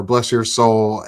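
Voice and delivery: slow, mock-sweet sympathy; lightly put-on Southern niceness; Southern nice. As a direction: stretch it out, pretending to be sweet. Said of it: "you'll say the sweetest things".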